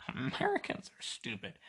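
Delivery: high, mocking voice of a foreigner; mock foreign listener. Podcaster imitating a foreign listener sneering at Americans, high mock voice. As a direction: sneer it up high like a smug outsider. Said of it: "you're like".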